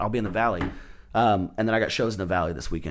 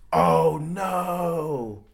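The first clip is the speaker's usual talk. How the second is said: mock dismay; 7 semitones higher, 4 dB quieter than usual. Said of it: "I was like".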